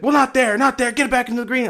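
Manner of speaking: high, loud mock scolding; imitated yelling. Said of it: "stop yelling at me".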